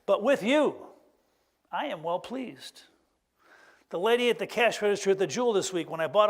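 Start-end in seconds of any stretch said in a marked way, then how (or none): 0.1-2.8 tender blessing. Pretend. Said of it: "I wanted to tell my daughter".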